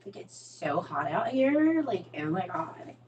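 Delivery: put-on slow, drawn-out Valley girl accent; soft, stretched Valley girl lilt. Vlogger showing off her inner Valley girl, Valley girl accent. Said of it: "my whole Valley girl comes out".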